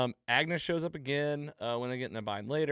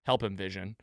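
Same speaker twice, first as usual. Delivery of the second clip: lower, firm imitated command; solid, serious tone; 4 semitones lower than usual. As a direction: drop lower and quote her firmly. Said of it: "solid tone".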